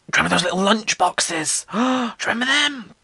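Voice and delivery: excited gush. Real, not acted. Excited recall of lunchboxes.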